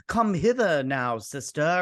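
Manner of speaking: lightly put-on old-world delivery; a hint of olden-times pronouncement; mock medieval speech. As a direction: play at medieval formality. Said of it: "like, medieval times".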